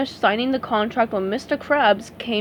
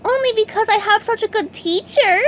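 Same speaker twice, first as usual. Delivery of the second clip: with a grin; 11 semitones higher than usual. A narrator's reading. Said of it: "SpongeBob answered with a grin".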